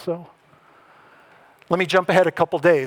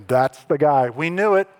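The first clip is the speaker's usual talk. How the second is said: louder, building, mock-certain finger-pointing; mock accusation; 5 semitones higher, 5 dB louder than usual. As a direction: ham up the disciples condemning Judas. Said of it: "all eyes go to Judas, right, and go".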